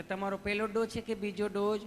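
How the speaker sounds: a lightly voiced sweet nurse; nurse asking. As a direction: ask gently like a routine nurse. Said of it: "nurse બેને સહજતાથી જેમ પૂછતા હતા એમ પૂછ્યું".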